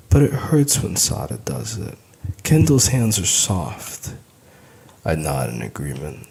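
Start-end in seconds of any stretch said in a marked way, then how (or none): 0.1-4.1 put-on high, slow child's voice; little girl plea. A narrator's reading. Daughter pleading about her hair, high and slow.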